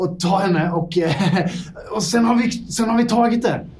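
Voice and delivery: a flustered lab mouse apologising for being late; scrappy little mouse. Acted. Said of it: "en liten scrappy mus".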